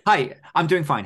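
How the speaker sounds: high giggly mock greeting; laughing. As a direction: giggle through a fake hello. Joking therapy greeting.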